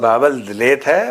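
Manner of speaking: lisping. Pretend. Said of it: "तुतला तो बोलता है सचिन".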